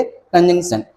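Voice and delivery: कंजंक्शन with the n sounded clearly, said slowly; pronounce the n. Shown as a demonstration. Teacher shows students the n in कंजंक्शन is pronounced. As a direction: slowly spell out कंजंक्शन, n fully voiced. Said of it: "इसमें भी एन को pronounce करोगे".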